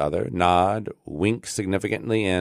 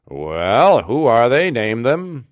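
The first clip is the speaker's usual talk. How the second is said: loud, higher-pitched demand; 6 semitones higher, 7 dB louder, slower than usual. A narrator's reading. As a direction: question him like a self-important official. Self-important official demands an answer.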